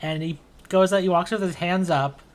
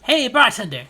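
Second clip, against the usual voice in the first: high, loud, slow celebratory call; happy generous friend; 5 semitones higher, 6 dB louder, slower than usual. Acted. Marty treating his friend, loud and joyful. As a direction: call out the round proudly. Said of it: "really happy to see Sieg".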